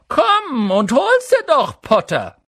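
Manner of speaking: high, drawn-out taunting call. A narrator's reading. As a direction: shout it down from a treetop. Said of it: "herab rief er". (laut herabrufen)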